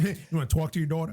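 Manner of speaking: quick mock New York "talk" and "daughter"; New York accent. Friend teasing about the daughter example, mock New York accent. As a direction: rattle off "tawk" and "daw-tuh", New York style. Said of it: "I'll say my daughter".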